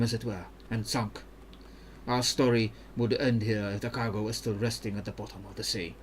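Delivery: put-on careful, even-toned Ionian accent; Mirim, Ionian accent. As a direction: explain the mission in a measured Ionian accent. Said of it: "when I'm doing an accent".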